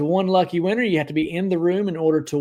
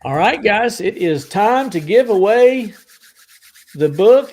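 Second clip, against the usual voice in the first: louder, higher, build the hype for the book; game-show host buildup; excited announcement; 6 semitones higher, 7 dB louder than usual. Real, not acted. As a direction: announce the giveaway loud and slow. Announcing the giveaway.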